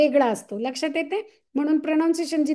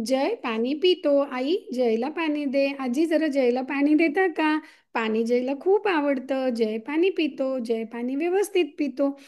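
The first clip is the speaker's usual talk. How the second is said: slow clear demo. Shown as a demonstration. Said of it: "पाणी हा शब्द खूप स्पष्टपणे".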